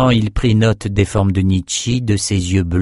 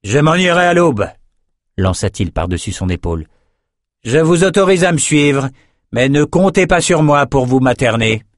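a haughty herald riding off; messenger calling out; 5 semitones higher than usual. Acted. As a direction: toss it back over the shoulder. Messenger calls over his shoulder.

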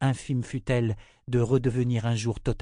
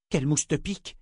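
a touch of indignant outrage, raised; indignant cry; 5 semitones higher than usual. Acted. Wife indignant at her husband's surrender, a mild cry. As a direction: snap back in disbelief. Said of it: "s'écria Callan indigné".

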